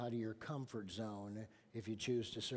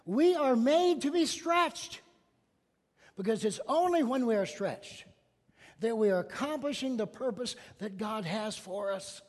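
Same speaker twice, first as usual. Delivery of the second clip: preaching loud; 8 semitones higher, 8 dB louder than usual. Real, not acted. Preaching climax.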